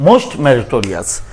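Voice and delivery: most meritorious dragged out, most leaned on; slow down and hit most in most meritorious; teacher contrasting most meritorious by slowing; slow, stressed most. Shown as a demonstration. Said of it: "এই যে এখানে meritorious".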